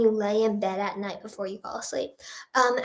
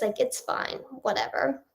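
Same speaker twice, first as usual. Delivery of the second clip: dismissive whisper; 6 dB quieter than usual. Retold or imitated. Shrugging off nose surgery.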